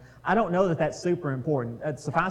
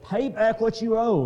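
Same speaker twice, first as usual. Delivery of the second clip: higher, louder harsh demand; 8 semitones higher, 6 dB louder than usual. A narrator's reading. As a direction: bark the demand at the debtor. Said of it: "he demanded".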